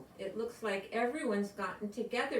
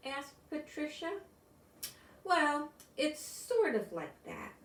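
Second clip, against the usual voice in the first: storybook reading. A narrator's reading. Reads picture book to class.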